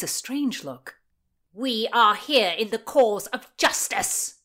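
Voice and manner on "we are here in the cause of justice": slow, loud, pompous declaration; booming. A narrator's reading. Oxford proclaims the cause of justice, booming. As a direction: boom it out slowly, pitched up. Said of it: "boomed Oxford".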